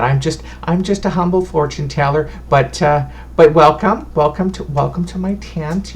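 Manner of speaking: a sweet granny introducing herself; fussy old fortune teller. Acted. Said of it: "And she goes".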